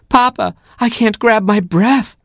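very high, warbling Gerbil voice; dramatic warble. A narrator's reading. Gerbil gasping to Papa, dramatic warble. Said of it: "warbled Gerbil".

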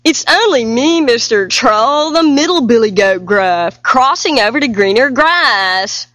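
medium voice. Acted. Middle goat explaining to the troll, medium voice. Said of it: "in a medium sort of voice".

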